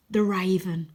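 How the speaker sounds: hushed urgent whisper. A narrator's reading. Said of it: "says Wyn".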